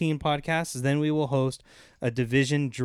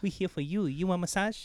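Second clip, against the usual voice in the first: brassy gum smacking floozy; 4 semitones higher, 7 dB quieter than usual. Pretend. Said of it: "mock masseuse offering massage".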